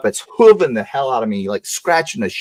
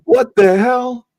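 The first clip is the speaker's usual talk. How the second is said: much higher, slow incredulous squawk; shocked disbelief; 9 semitones higher, slower than usual. Retold or imitated. Boy hears he must cut off the hog's nuts, horrified disbelief. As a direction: react like a kid who can't believe it.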